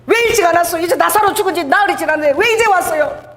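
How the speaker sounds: high-pitched mock crying complaint; imitated tearful reproach. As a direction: plead as a grieving Mary, without real tears. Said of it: "막 마리아가 울면서 그러니까". (울며 원망하는 흉내)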